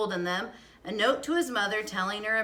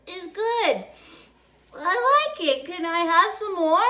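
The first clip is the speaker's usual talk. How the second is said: put-on high, louder child's voice asking for more; a little girl who suddenly loves her medicine; eager little girl; 10 semitones higher, 7 dB louder than usual. Girl asking mother for more medicine, eager and high.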